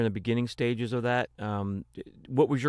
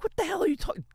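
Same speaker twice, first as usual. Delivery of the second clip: mock indignation; 4 dB quieter, faster than usual. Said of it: "I'm like".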